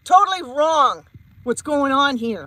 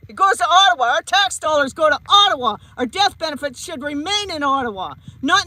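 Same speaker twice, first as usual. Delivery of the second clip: raised voice, fed up and furious; angry yelling. Real, not acted. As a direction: yell it out in real anger. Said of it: "Yes, I'm yelling because I'm pissed off".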